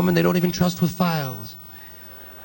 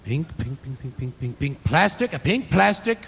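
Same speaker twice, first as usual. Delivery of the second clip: mock psychic customer; 3 semitones higher, slower than usual. Psychic customer describes item.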